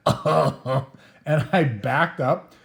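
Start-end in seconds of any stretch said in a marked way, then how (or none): 0.1-0.9 long drawn-out mock groan; retold moan of pain; imitated groan. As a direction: groan like the friend lying hurt. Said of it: "I just heard him say".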